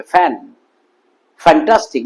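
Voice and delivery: "fantastic" starting on an airy English f; open-lipped f. Shown as a demonstration. Teacher demonstrating the letter F, open-lipped f. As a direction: keep lips apart on the f of "fantastic". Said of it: "মুখ খুলে উচ্চারণ হবে".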